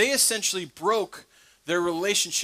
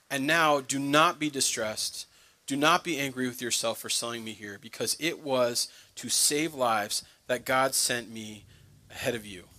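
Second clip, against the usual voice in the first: tender reassurance; 5 semitones lower, 3 dB quieter than usual. Retold or imitated. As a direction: comfort them like a forgiving brother. Joseph reassures his terrified brothers.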